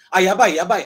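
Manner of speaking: loud panicked yabai; we're caught; alarmed yabai. Shown as a demonstration. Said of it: "Alamak, habislah kita".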